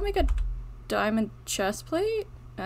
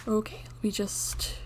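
slow unvoiced whisper; 6 dB quieter, slower than usual. Real, not acted. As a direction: whisper it so nothing hears you. Sneaking in a cave.

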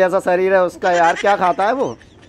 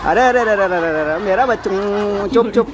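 put-on babying comfort. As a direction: coo and shush as if to a baby. Soothing an upset partner like baby.

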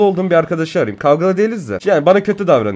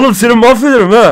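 louder, higher mock threat; 7 semitones higher, 8 dB louder than usual. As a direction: threaten half in jest. Threatening friend on phone.

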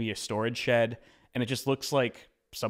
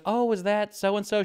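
put-on high, slow old lady voice; quirky old lady; 10 semitones higher, 4 dB louder, slower than usual. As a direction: pitch up into the chatty old neighbour.

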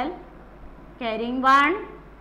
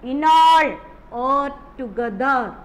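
teacher stressing in all and together; stressed key words; 4 dB louder than usual. Shown as a demonstration. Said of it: "What word?".

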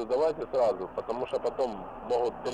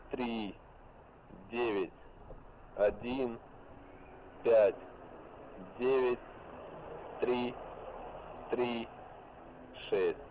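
dictating; 5 dB quieter, slower than usual. Real, not acted. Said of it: "Повторяю".

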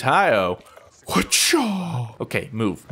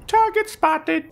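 higher, slow robotic announcement; robot drone voice; 14 semitones higher, slower than usual. Pretend. Voicing the rolling drone spotting its target, robotic. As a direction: play the killer drone locking on.

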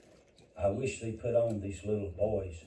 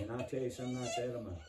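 crying; 4 dB quieter, faster than usual. Real, not acted. Preacher weeps thinking of grandchild.

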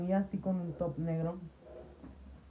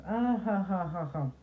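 mock laugh; 3 semitones higher, slower than usual. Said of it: "se iba riendo".

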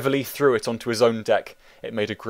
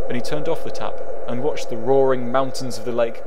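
loud narration; 8 dB louder than usual. A narrator's reading. Torrent scene read louder.

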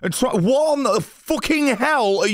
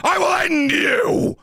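building from raised pitch to a high shout; indignant ranting; 7 semitones higher than usual. Real, not acted. Streamer defending edited videos to viewers, indignant rant building to shouting.

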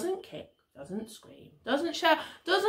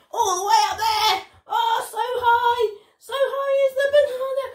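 high, loud, quick storytelling; breathless, rising excitement for small children; excited exclaiming; 9 semitones higher, 5 dB louder, faster than usual. Pretend. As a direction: call it up to something way out of reach. Banana held out of reach.

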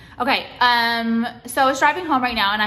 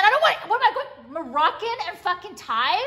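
laughing through the words, much higher; disbelieving laugh; 7 semitones higher than usual. Real, not acted. Vlogger laughs about Moroccan Thai fusion, high disbelieving laugh. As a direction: laugh at how absurd it is.

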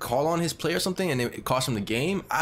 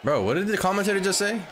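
laughing disbelief; 7 semitones higher than usual. Real, not acted. Laughs at the commentator's remark.

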